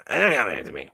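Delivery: lightly voiced toy talking back; puppet character voice. Toy answering its maker's lukewarm remark, puppet character voice. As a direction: put on a cheeky little puppet voice. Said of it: "that a good voice for him".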